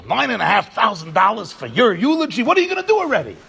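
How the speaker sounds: rising outraged disbelief at the price; the stingy man balks, incredulous; indignant disbelief. Retold or imitated. Stingy man hearing the price, incredulous and rising.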